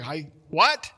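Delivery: mock shout over roaring water; straining to be heard next to the falls; yelling over a waterfall.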